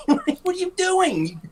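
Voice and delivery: high, laughing exasperation; laughing disbelief. Retold or imitated. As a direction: laugh through the question.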